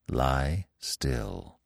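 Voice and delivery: low, soft reassurance; steady the hare with a quiet word; gently encouraging. A narrator's reading. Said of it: "he nodded encouragingly to the hare".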